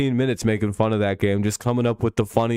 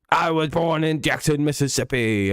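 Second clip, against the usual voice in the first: imitating Kyle Allen; 5 semitones higher than usual. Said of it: "odd way of speaking".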